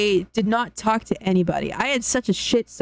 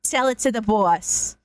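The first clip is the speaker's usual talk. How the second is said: put-on New York accent. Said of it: "New Yorker accent".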